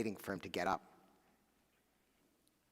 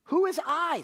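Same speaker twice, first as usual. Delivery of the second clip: put-on old widow; 14 semitones higher, 7 dB louder than usual. A narrator's reading. Widow questions the stranger.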